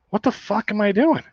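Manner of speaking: high-pitched exasperation, speeding up toward laughter; self-mocking disbelief. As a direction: question yourself in mock outrage, voice climbing. Acts out disbelief at himself, laughing.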